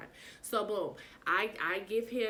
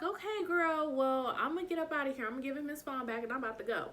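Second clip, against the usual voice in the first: high sweet exit line; 6 semitones higher than usual. Retold or imitated. Retelling her own exit line.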